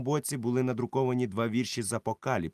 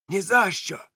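firm refusal; 10 semitones higher, 5 dB louder than usual. Acted. Silver firmly refusing.

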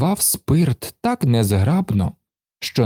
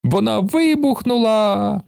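much higher thrilled cry; delighted shout; 10 semitones higher than usual. A narrator's reading. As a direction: shout it with glee at the explosion. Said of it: "захоплено вигукнув Карлсон". (захоплений вигук)

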